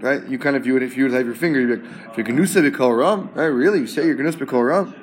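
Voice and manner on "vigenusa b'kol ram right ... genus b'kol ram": "b'kol ram" rising each time, as if asking "really?"; incredulous question. Shown as a demonstration. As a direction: question "Vigenusa b'kol ram" in mild disbelief, ending up on "ram". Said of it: "Question mark, basically".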